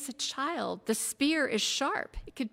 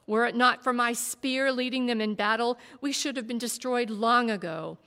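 louder, rising heated defence, building; 4 semitones higher, 7 dB louder than usual. A narrator's reading. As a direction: argue harder with each line. Warrior defends himself heatedly.

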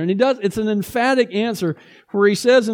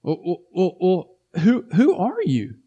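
a hint of a sly interrogator; mock suspicious probing; 2 semitones lower than usual. Delegation pressing the evasive John, mock suspicious.

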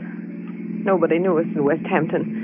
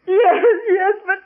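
hysterical; 11 semitones higher than usual. Acted. Woman breaks down under questioning.

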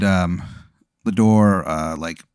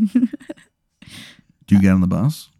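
very slow, ghostly question; eerie slow whisper; much slower than usual. Acted. A faint voice in the distance luring the player, slow and ghostly. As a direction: draw it out like a distant wail.

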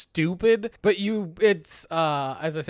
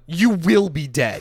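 slow menace; 4 dB louder than usual. Acted. Acted threat to the scientist.

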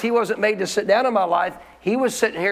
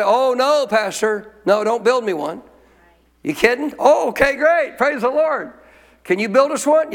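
eager pastors; 3 semitones higher than usual. Retold or imitated. Pastors eagerly accept website offer.

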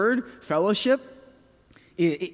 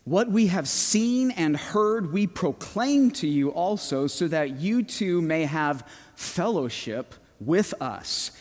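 raised, slow proclaiming read of scripture. Acted. Pastor reading the fellowship verse aloud, proclaiming.

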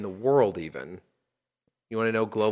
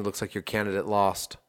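gentle teasing. Real, not acted. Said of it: "I'm just teasing".

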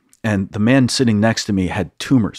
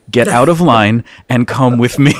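retold firm command, louder; insistent order; 2 semitones higher, 5 dB louder than usual. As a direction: order him along, acting out the volunteer. Insistent order after two refusals.

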